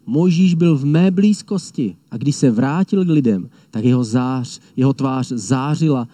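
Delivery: proclaiming lion of Judah. Retold or imitated. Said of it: "Ten křičí".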